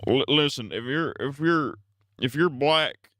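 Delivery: lightly voiced stammering old president; a hint of a halting, rambling Biden; Joe Biden impression. Streamer mocks Biden crudely for chat, lightly voiced stammering impression. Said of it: "Not a true Biden impression".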